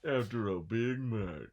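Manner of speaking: dramatic, slow trailer announcer; movie trailer voice. Pretend. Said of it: "That sounds like a movie trailer".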